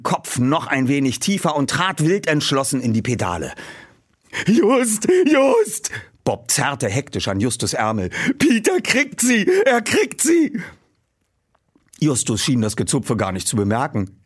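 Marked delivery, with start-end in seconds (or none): 4.5-5.9 high urgent calls to a friend; excited calling. Acted. Bob urging Justus, high excited calling. 8.4-10.6 high, thrilled cheer; can't believe he's catching them; excited cheering. Acted. Bob to Justus at the race, high thrilled cheer.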